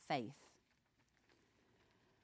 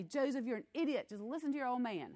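mock scolding; 4 semitones higher, faster than usual. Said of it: "He doesn't say".

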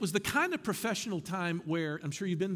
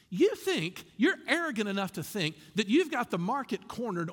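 accusing objection. Acted. Modern critic objecting to exclusive Christians, acted exasperation. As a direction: voice an objector's mild indignation, punching key words. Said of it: "level this objection to Christians".

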